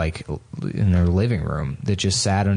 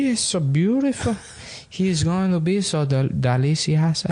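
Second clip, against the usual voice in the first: much higher, doting mock cook; 8 semitones higher than usual. Woman admiring the parrot as food, high cooing. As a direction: coo over the bird like dinner.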